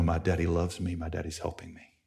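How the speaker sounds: very soft, low refrain; quiet, comforting near-murmur; tender reassurance. Retold or imitated. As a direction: let it sink to a hush. Tender closing refrain of story.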